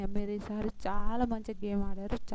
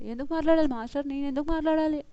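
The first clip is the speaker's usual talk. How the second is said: higher-pitched indignant protest, imitated; mock angry retort; 5 semitones higher than usual. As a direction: imitate a contestant arguing back. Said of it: "Janu కోపంగానే మాట్లాడుతుంది". (కోపంగా ఎదురు ప్రశ్నిస్తున్నట్టు అనుకరణ)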